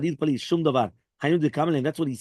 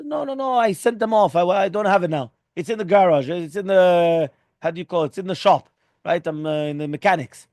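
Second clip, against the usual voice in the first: louder, higher flustered excuse, talking fast over himself; 4 semitones higher, 5 dB louder than usual. Retold or imitated. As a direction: act out a panicky excuse to the visitor. Flustered excuse in a retold parable.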